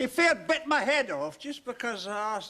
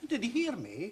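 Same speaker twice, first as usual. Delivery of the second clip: normal talking voice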